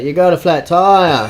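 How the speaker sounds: high, loud imitation of a call-out; mock shout, pitched well up; retold yell. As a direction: yell it like a passer-by warning a driver. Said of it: "He yelled out".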